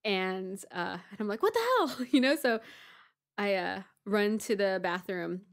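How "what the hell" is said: high-pitched startled outburst, retold; retold alarm. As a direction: act out a startled reaction. Retold reaction to hearing screams.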